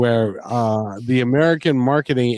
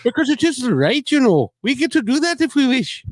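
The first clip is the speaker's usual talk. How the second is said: put-on Indian accent; 10 semitones higher, faster than usual. Continues the Indian accent bit.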